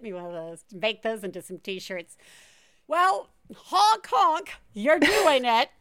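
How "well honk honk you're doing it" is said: silly clown. Pretend. Silly honking sign-off.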